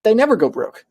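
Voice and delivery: NEVER said with a high, mocking lilt; dry ironic punchline; sarcastic repeat. Shown as a demonstration. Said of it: "besides those".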